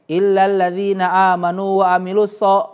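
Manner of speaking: so said with a thick, backed S sound; so thick and heavy. Shown as a demonstration. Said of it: "bukan so, tapi so".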